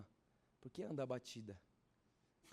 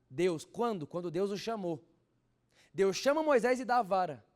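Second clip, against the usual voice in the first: loud, high revival preaching; full-force pulpit preaching; fiery preaching; 8 semitones higher, 11 dB louder than usual. Acted. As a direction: preach it out to the whole church.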